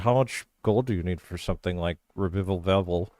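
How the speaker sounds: talking through a mouthful of food; words round a bite of food; mouth full. Acted. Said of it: "after I take a bite with my mouth full".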